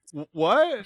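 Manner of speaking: high-pitched mock disbelief; squeaky, incredulous "what"; shocked bewilderment. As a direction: imitate a lifter baffled by a huge weight. Shocked lifter looking at the bar.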